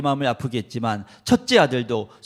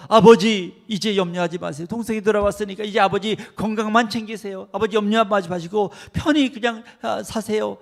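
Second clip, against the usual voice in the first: loud, high, eager son comforting his father; loving son; 6 semitones higher, 6 dB louder than usual. Acted. 안심시키는 아들이 아버지에게 기쁘게 외치는 목소리. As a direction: reassure the father with joyful force.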